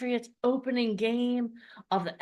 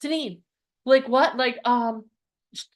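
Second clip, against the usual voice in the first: retold panic; 4 dB louder than usual. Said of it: "She's like".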